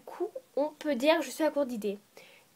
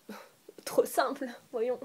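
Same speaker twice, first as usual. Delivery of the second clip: sarcastic whisper. Real, not acted.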